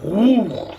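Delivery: high swooping "whoo"; imitated pressure whoosh. Storyteller showing pressure pushing heads down, imitated whoosh. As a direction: imitate a sudden force pressing down. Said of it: "and it was like".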